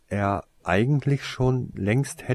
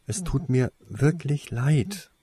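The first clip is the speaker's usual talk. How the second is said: slow, higher-pitched sincere apology; earnest assurance; 8 semitones higher than usual. A narrator's reading. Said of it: "versicherte er". (aufrichtig versichert)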